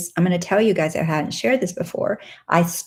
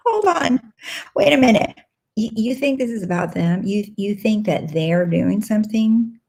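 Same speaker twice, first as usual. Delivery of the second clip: startled realization; 3 semitones higher than usual. Retold or imitated. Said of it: "And I was like".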